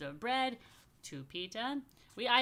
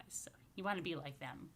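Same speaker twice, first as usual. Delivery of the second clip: whispered aside; 3 semitones lower, 6 dB quieter than usual. Real, not acted. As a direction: breathe it gently, barely voiced. Blessing the children softly.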